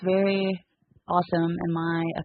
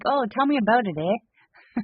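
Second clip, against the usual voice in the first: lightly hammed-up Canadian accent with a rising eh; a hint of a folksy Canadian accent, tag on the eh; light Canadian accent for a Korean friend; 4 semitones higher than usual. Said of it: "That's my Canadian accent for you guys".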